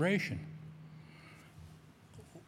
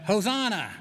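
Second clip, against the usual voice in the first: a raised, ringing hosanna, higher and louder; joyful shout; 5 semitones higher, 3 dB louder than usual. Pretend. Pastor calling the congregation to shout hosanna, joyful raised cry. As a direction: call it out in praise. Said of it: "as we shout".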